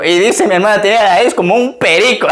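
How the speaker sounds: retelling the sister's line, barely holding back laughter; laughing while quoting. Retold or imitated. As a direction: quote it fast, laughing through the words. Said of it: "y digo". (citando entre risas)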